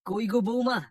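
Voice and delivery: a high call across the yard. Acted. Old man calls his daughter-in-law to come outside. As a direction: summon her from inside the house.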